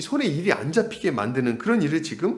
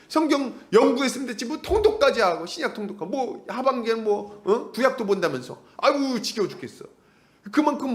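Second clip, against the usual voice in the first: higher, fed-up nagging grumble; grumbling complaint; 6 semitones higher than usual. Retold or imitated. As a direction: whine that the Bible reading is too much. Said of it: "그러면서 이제 뭐라 합니까?".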